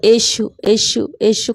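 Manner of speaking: a slow prayerful chant of the name; slow repeated prayer. Retold or imitated. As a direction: draw each यीशु out slowly, like a murmured chant. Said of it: "करके ऐसा बोलती जा रही थी मैं".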